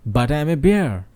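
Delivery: reading a fable aloud to the class, lightly voicing the characters; story narration. A narrator's reading. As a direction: tell it like a storyteller to students. Teacher reads a story aloud.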